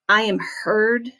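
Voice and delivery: said to yourself as if taking it in; accepting it in your heart. Shown as a demonstration. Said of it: "as though you're accepting it".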